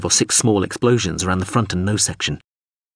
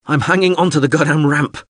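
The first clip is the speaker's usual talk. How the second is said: higher, strained shout; exasperated yell; 7 semitones higher, 4 dB louder than usual. A narrator's reading. Man dangling from the ramp to pilot, strained yell. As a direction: yell it in desperate annoyance.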